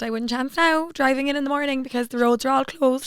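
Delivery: imitating a Cork taxi man; lightly put-on Cork accent; a hint of Cork lilt. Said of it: "This is my Cork accent".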